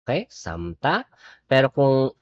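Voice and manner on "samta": samta with no l sound, sahm-tah; teacher showing the silent letter; pronounce samta. Shown as a demonstration. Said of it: "Silent yung lil na to".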